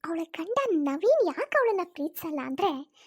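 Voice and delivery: lightly voiced jealous schemer, mocking; a hint of a spiteful in-law gloating; scheming sister-in-law. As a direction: sneer at the praise, then gloat. Jealous sister-in-law's scheming monologue.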